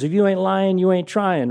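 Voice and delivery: high, loud catchphrase delivery; Jim Rome voice. Retold or imitated. Host handing out a motto on air, high and loud. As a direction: punch it out like a radio slogan. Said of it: "he's doing the Jim Rome voice".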